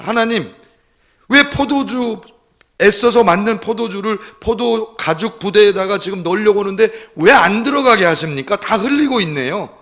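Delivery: high, loud mock grumbling at God; resentful complaint. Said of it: "이렇게 원망하는 거예요".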